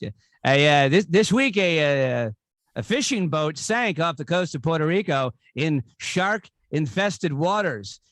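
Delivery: lightly imitated news-anchor joke delivery, swooping pitch; halting mock newsreader, lift the punch word; Norm Macdonald. Comic doing a favorite Weekend Update joke, light anchor impression. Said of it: "two favorite Norm Macdonald jokes from Weekend Update".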